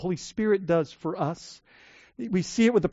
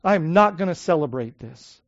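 sulky angry refusal; 7 dB louder than usual. Retold or imitated. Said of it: "He says".

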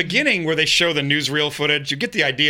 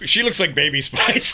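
laughing. Real, not acted. Laughing at own joke.

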